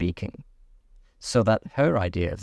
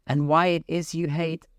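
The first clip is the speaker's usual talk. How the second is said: Alice voice; 8 semitones higher than usual. A narrator's reading. Alice continues.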